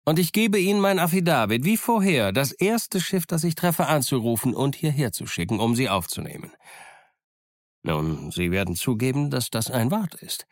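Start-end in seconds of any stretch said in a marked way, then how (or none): 0.0-6.5 raised, higher-pitched pirate offer; cunning old pirate talking big; pirate Silver bargaining. Acted. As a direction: sell the deal with a sly swagger. Silver's speech to the captain.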